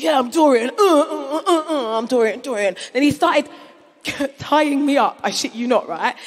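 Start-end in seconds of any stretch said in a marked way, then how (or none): 0.0-2.8 broody moaning Dorian. Retold or imitated. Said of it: "he was like".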